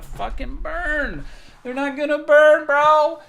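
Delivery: high, loud mock yell at the boss; mocking shout. To the boss about the trees, a high mocking yell.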